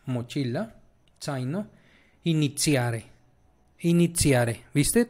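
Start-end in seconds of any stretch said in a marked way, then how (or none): 1.2-4.7 zaino, iniziare with z as ts; Italian ts sound. Shown as a demonstration. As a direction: model zaino and iniziare softly with ts. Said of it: "la vas a pronunciar como T".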